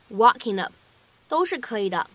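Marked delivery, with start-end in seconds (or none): 0.1-0.7 "walking up" joined, ending "walkin" into "up"; linked with n. Shown as a demonstration. Teacher offering second option, "walking up" linked through an n. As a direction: link "walking up" with n in place of ng. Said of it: "也可以读成".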